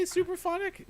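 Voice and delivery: autotune. Acted. Effect voice again.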